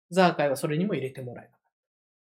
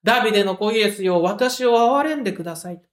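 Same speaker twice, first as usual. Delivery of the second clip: crying out louder; 4 dB louder than usual. Retold or imitated. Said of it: "ますます大きな声で叫び続ける".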